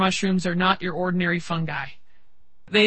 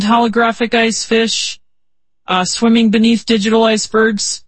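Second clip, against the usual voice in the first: louder and rising with wonder; excited; 2 semitones higher, 5 dB louder than usual. Acted. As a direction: build up the excitement line by line. Building an awe-filled vision.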